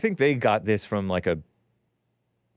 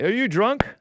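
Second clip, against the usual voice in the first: incredulous; 10 semitones higher than usual. Real, not acted. Host repeats baffled question.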